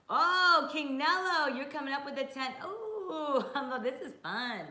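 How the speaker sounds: high, loud squealing hello to a viewer; excited greeting. Real, not acted. Streamer greets a viewer's big donation, excitedly squealing.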